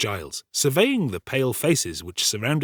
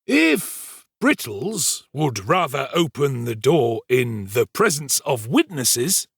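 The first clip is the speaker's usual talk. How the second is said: slow, measured character voice, slightly raised; lightly voiced Mister Giles; 3 semitones higher, slower than usual. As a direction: draw it out as a lightly acted story character.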